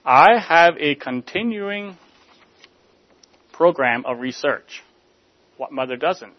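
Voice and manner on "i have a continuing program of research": cool, unflustered. Acted. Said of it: "Coolly, without any trace of fluster".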